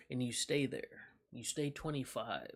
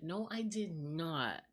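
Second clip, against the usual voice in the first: mock denial; 2 semitones higher, much slower than usual. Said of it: "this how she said it".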